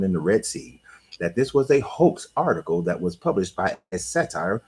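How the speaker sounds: formal, carefully enunciated presenter voice with rolling intonation; voiceover recap. Acted.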